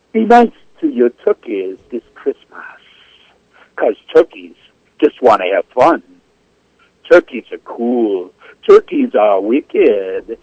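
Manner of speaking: put-on performed Jamaican-accented poem, lilting pitch with pauses between phrases. Poet reciting a cover poem on air at its author's request, Jamaican accent. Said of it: "do it in my best Jamaican accent".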